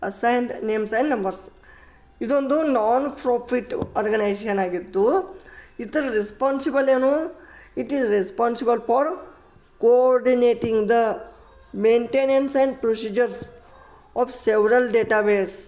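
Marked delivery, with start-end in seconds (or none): 0.0-1.4 very slow, each word separated; slow teacher dictation; slow full form. Shown as a demonstration. 7.8-15.6 very slow, word by word definition; slow textbook reading. Shown as a demonstration. Teacher reads definition aloud.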